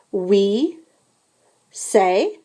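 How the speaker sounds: We, a pause, then say; split for repetition. Shown as a demonstration. Teacher has the class repeat We say in parts. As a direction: break We say into slow pieces. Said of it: "répétez".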